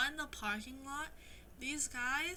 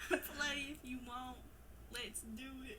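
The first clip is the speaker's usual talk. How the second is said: put-on southern accent; 5 dB quieter than usual. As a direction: lay the southern accent on the lyrics. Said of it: "Read the song lyrics in your southern accent".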